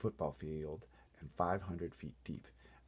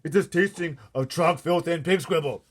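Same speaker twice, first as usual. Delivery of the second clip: loud, high, disgusted; disgusted cry; 8 semitones higher, 12 dB louder than usual. A narrator's reading. BFG warning the Queen, loud disgusted cry. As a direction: spit out the words in disgust. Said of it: "cried the B F G".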